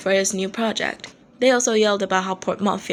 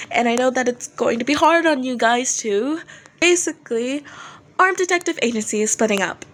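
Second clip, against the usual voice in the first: higher-pitched nervous singer hushing fans; Dazai on stage; 4 semitones higher than usual. Acted. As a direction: soothe an angry crowd, uneasy.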